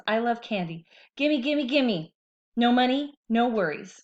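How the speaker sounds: lightly voiced candy-grabbing hand; greedy hand. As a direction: want candy badly.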